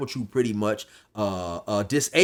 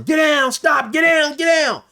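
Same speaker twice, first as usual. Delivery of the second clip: much higher, loud guard commands; hollering; 7 dB louder than usual. Retold or imitated. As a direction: bark orders at fighters. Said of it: "the guard is hollering".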